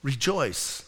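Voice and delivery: a soft, low 'Rejoice' from Jesus; tender rejoice. Shown as a demonstration. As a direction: say 'Rejoice' gently, like a whisper of comfort. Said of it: "I love the way he tells them".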